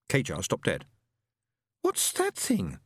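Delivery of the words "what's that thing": high startled woman's voice; cried out. A narrator's reading. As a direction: cry it out, pointing, alarmed. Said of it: "she cried".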